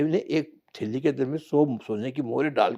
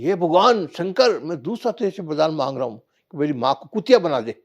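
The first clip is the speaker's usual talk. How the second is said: angry plea to god; 3 semitones higher, 4 dB louder than usual. Acted. Angry son calls to Shankar to curse his mother. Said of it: "उसने गुस्से में कहा".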